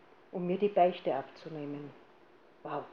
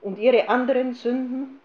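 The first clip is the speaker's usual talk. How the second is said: loud, higher, curt demand; gruff question; 5 semitones higher, 8 dB louder than usual. Retold or imitated. Priest pressing the penitent about other sins, gruff and loud. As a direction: bark it like a stern confessor. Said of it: "sagte er ganz barsch".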